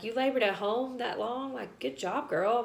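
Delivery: retold cheer of impressed congratulation; impressed nurses. Nurses praising her for labouring at home, proud and impressed. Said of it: "nurses were so proud of me".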